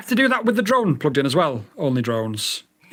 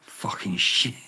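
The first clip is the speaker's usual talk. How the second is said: whispered curse under the breath; real whispered swearing; frustrated whisper; 10 semitones lower, 5 dB quieter, slower than usual. Real, not acted. Frustrated at the failing radio.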